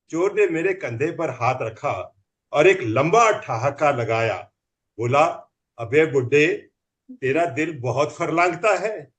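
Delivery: measured, rhythmic verse delivery with pauses; comic poem recital. Acted. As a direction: recite it like comic stage poetry, landing each rhyme. (हास्य कविता का लयबद्ध मंचीय पाठ)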